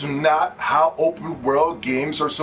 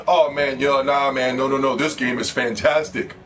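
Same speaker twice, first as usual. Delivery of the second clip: mock game fan; 6 semitones lower than usual. Acted fan defending a game.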